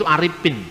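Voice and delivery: Aripin with a p sound in place of f; Dayak p for f. Shown as a demonstration. Preacher teaching a class the Dayak way of saying Arifin. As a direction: say Aripin as a Dayak speaker would. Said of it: "Orang Dayak juga begitu".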